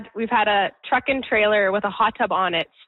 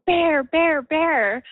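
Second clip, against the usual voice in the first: mild mock yell, higher pitched; imitated yelling; 7 semitones higher, much slower than usual. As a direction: retell mom's alarm call as a half-hearted yell. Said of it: "she was yelling".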